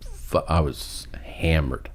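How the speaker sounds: whispered, slow admission; half-whispered, sheepish; hushed confession. Retold or imitated. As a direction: drop to a hush as you confess. Drunk hookup confession, whispered.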